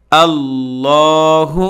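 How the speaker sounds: আল্লাহু said slowly with a full, heavy lam; আল্লাহু with a stretched final vowel; heavy lam in Allah. Shown as a demonstration. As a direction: draw out আল্লাহু with the thick lam. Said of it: "এই যে আল্লাহ শব্দ রয়েছে".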